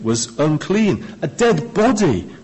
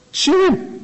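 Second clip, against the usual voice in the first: mock shoo. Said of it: "them's the rules".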